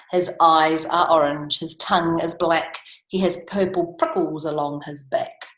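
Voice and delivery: measured, deliberate mouse boast; telling monster description. Acted. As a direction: list each feature with relish.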